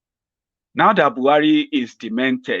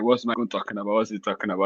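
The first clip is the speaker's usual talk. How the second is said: puzzled viewer; 2 semitones lower, 7 dB quieter, faster than usual. Retold or imitated. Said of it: "some of you are already having your straight face".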